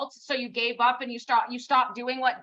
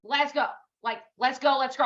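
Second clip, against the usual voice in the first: road rage rant. Retold or imitated. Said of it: "I will literally go face to face and be like".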